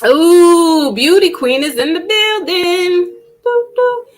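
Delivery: high, singsong welcome; excited welcome. Real, not acted. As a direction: hype up her entrance. Greeting a viewer arriving.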